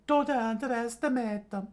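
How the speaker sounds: high dry warning; mild stern old woman; unimpressed. Acted. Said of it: "arms crossed, unimpressed".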